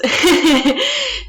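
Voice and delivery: high-pitched amused giggle; light high laugh at herself. Real, not acted. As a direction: giggle at the premise. Laughing after saying it's set in space.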